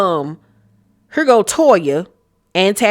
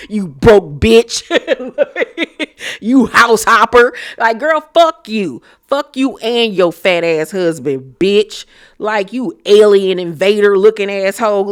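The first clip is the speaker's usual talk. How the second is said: laughing insults; 3 semitones higher, 4 dB louder than usual. Pretend. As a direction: cackle while you roast her. Laughing insults aimed at Toya.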